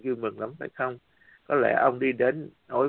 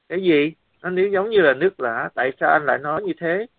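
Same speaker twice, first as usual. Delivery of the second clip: surprised; 4 semitones higher, 5 dB louder than usual. Retold or imitated. Shocked at brother's answer.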